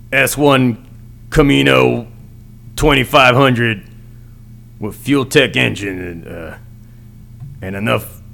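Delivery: lightly voiced macho truck commercial announcer; a hint of a manly ad read, slow in places. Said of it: "could you imagine him trying to do, like, a commercial for a truck".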